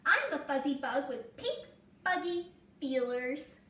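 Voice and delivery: put-on playful little girl. A narrator's reading. Emmy pretending with blossoms.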